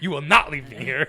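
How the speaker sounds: very loud mock command; hammed-up refusal. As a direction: belt it out, punching "not".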